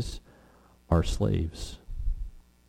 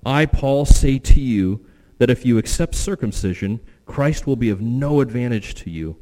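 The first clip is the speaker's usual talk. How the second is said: loud, raised scripture reading with urgency; emphatic reading of Paul; 4 dB louder than usual. Acted. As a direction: proclaim Paul's warning to the congregation. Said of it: "Paul says".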